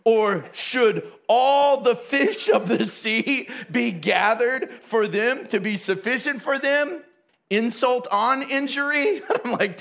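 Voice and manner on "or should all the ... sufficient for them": slow, snarky rhetorical question. Retold or imitated. Moses snarking at God with a slow, mocking question. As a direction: drip the snark, slowly. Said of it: "Snarky subtext noted".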